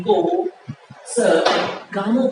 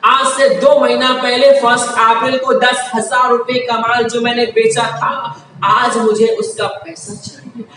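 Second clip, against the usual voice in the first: angry demand. Acted. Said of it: "Ramu गुस्से में है कि".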